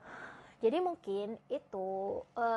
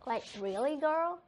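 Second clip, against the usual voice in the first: sassy drag queen; 4 semitones higher, slower than usual. Pretend. Wig on, playing a diva.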